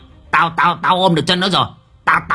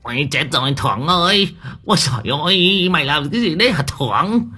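much higher, shrill panicked wailing; panicked cry; 10 semitones higher than usual. Acted. Khen crying out to Thưởng in panic, higher and higher. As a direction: squeal in rising alarm.

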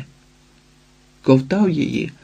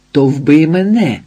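louder taunting dare; defiant cry; 3 semitones higher, 5 dB louder than usual. A narrator's reading. Ізидора кидає виклик Ілії, зухвало. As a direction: throw the dare at him. Taunting him to kill her.

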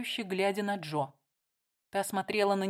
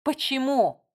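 higher, louder cry of «Почему?»; a sharp, raised why; exclaiming; 6 semitones higher, 5 dB louder than usual. Acted. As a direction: burst out in protest. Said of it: "воскликнула Бетти".

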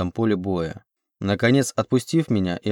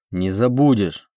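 ordinary delivery, nothing marked

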